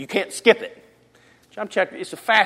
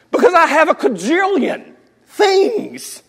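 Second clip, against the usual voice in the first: high, loud, drawn-out outburst; loud exclamation; 10 semitones higher, 7 dB louder, slower than usual. Real, not acted. Preacher admits his many failings, loud and exasperated. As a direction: blurt it out high, stretching each word.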